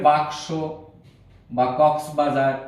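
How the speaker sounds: কক্সবাজার said slowly, syllable by syllable; slow teaching word. Shown as a demonstration. Teacher slowly reading কক্সবাজার aloud as a sample word. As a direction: draw out কক্সবাজার for pupils to copy. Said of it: "আমরা লিখতে পারি".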